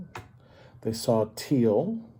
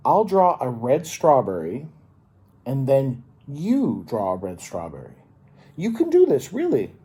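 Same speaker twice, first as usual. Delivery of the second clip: encouraging teacher; 2 semitones higher, 6 dB louder than usual. Acted. Teacher encouraging Red, upbeat and coaxing.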